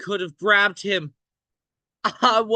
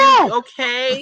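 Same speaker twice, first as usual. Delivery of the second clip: louder, choked-up shout; shouting into hole; 5 semitones higher, 6 dB louder than usual. Acted. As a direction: call down with a crack of tears. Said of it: "they shout into the hole".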